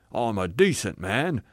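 self-righteous assertion; indignant ghost. Acted. Ghost defending himself to the spirit, indignant. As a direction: insist stubbornly on your respectability. Ghost's claim, later contradicted.

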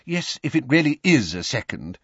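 a hurried, polite official; Mr Weasley voice. A narrator's reading.

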